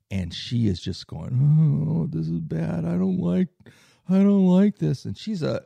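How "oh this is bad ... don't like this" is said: higher-pitched, distressed Caribbean woman, imitated; Caribbean accent. Frightened passenger moaning on a bumpy flight, in an imitated Caribbean accent. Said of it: "she has this, you know, um, Caribbean accent".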